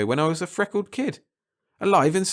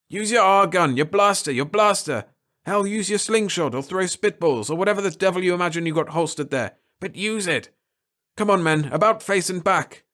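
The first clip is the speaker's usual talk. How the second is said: commanding shout; 2 semitones higher than usual. Acted. Captain rallies the men.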